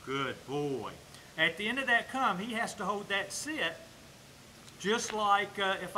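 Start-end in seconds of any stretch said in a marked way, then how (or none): 0.0-0.9 low, drawn-out praise for a dog. Real, not acted. Trainer to his dog after it comes, low praise. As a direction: drop the pitch and stretch the praise.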